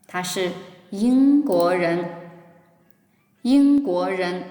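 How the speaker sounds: slow and clear for repeating; slow teacher demo; slow model reading. Shown as a demonstration. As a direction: spell it out slowly for the class. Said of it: "Please try to read with me".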